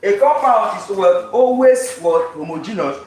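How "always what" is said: "Always" raised in pitch and stretched out; teacher emphatically drawing out "Always"; stress on ALWAYS. Shown as a demonstration. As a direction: hit "Always" high and slow. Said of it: "emphasis on the always".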